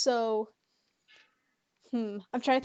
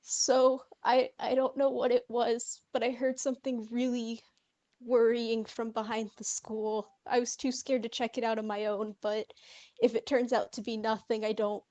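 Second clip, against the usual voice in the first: nervous, half-whispered start; a frightened girl confiding in a friend; shaky voice. Acted. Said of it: "like, shaky voice".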